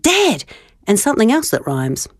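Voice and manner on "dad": higher, urgent call; mild yell. Retold or imitated. Child calling dad on the phone, mild yell. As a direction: call him as soon as it clicks. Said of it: "and I yelled".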